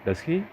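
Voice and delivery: "he" lifted high, like a real question; unsure rising tag on "does he"; questioning rise on "he". Shown as a demonstration. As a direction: let "he" climb sharply. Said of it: "it is almost like a question".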